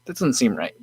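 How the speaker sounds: mock disbelief; incredulous. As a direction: retell the doubt, pitch jumping up on the first word. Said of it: "And I was like".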